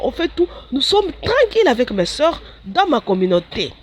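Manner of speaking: pleading. Retold or imitated. Her past self pleading with Jesus.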